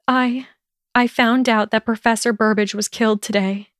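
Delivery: halting, fighting tears; careful, holding back tears. Acted. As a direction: tell it carefully, near tears. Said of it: "she revealed carefully".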